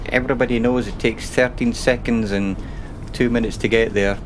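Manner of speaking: whiny complainer voice, lightly done. Retold or imitated. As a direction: whine it like a moaning critic. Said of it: "yes, that was a whiny voice".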